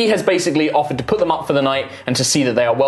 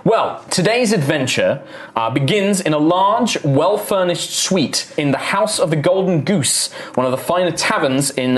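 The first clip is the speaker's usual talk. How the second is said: game master narration. Acted. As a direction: paint the tavern scene for players. Game master sets the opening scene.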